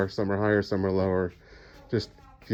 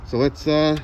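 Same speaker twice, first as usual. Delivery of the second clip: muffled behind a full face mask; words dulled through a mask; talking through a mask; 6 semitones higher, 4 dB louder than usual. Real, not acted. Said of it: "Sorry I'm talking through a mask".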